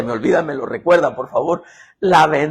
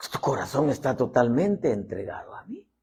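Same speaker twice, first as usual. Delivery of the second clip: whisper; 4 semitones lower, 6 dB quieter than usual. Acted. God's promise, hushed.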